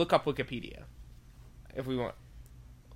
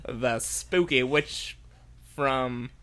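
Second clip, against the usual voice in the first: Southern cowboy drawl witch; a light Southern US accent; 3 semitones lower, much slower than usual. Acted. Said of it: "This accent ain't nearly localized enough".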